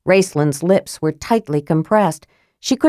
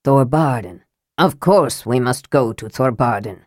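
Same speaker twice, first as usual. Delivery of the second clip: low dwarven prince voice; 5 semitones lower than usual. Acted. Sturm as dwarf prince.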